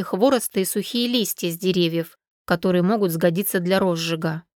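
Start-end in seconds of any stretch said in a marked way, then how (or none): none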